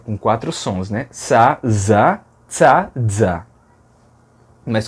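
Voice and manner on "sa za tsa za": sa, za, tsa, za each sound clearly apart; medieval sounds. Shown as a demonstration. Teacher demonstrating medieval Portuguese sibilants. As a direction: run through sa, za, tsa and za slowly. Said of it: "como se pronunciava na Idade Média".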